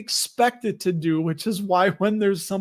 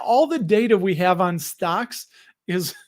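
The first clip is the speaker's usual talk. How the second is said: slipped New York accent. Real, not acted. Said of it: "I just caught my accent there".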